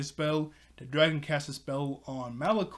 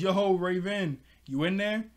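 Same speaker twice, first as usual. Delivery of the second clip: lightly raised, higher voice of a caller; calling out; 4 semitones higher, 3 dB louder than usual. Retold or imitated. Beast Boy checking on Raven at her door, calling out. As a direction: call to someone behind a door.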